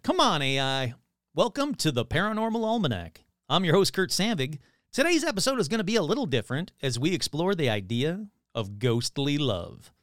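upbeat TV show host; TV host read. Acted. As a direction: present it like a paranormal show host. Reads show host script.

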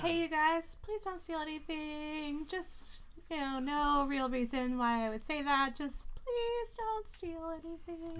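pleading character voice. Acted. Fenella pleads with party in character.

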